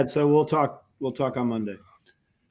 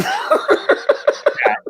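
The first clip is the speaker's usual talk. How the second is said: whispered name. Pretend. Mock thanks to Chad.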